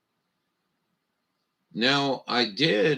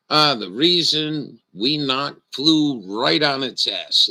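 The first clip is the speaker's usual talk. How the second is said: mock announcer; 4 dB louder than usual. Mock announcer congratulating world.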